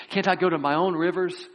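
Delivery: high, indignant complaint; complaining. Retold or imitated. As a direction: whine it like an offended general. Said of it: "as he began to complain".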